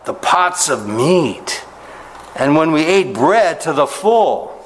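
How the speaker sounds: slow, high, dreamy longing for meat; longing grumble. Acted. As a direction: savour the memory of the food pots. Preacher voices complaining Israelites.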